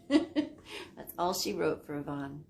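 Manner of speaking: laughing into the words; amused. Real, not acted. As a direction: chuckle as you start, then settle. Laughing at own tease.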